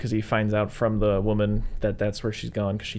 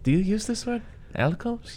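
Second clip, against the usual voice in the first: high-pitched questioning imitation; raised pitch on a retold question; quizzical quote; 12 semitones higher than usual. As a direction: lightly mimic a puzzled foreigner asking. Retells film character's odd question.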